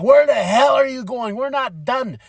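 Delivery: retold indignant challenge; angry confrontation. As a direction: imitate a wrestler picking a fight. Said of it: "he's angry, he's mad".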